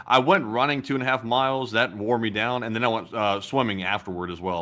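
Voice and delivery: tired slurring words; slurred, tired speech. Real, not acted. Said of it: "I've been slurring all my words".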